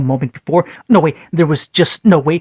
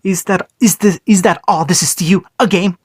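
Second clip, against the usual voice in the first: rough, hoarse voice, a touch higher; 3 semitones higher than usual. Acted. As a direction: rasp it out, barely holding back rage. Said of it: "The hoarseness of John's own voice".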